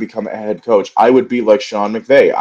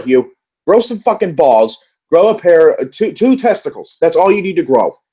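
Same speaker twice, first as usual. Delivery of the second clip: exasperated rant; 7 semitones higher than usual. Real, not acted. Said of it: "I think I'm just angry right now".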